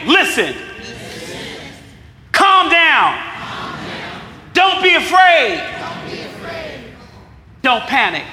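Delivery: loud call-out. Shown as a demonstration. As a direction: belt the four commands out to the room. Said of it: "So repeat after me".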